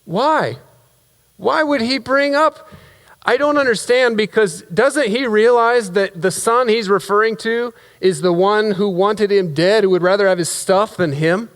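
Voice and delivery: high-pitched, incredulous complaint. Acted. Son baffled by father praising his brother, incredulous. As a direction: question it in aggrieved disbelief.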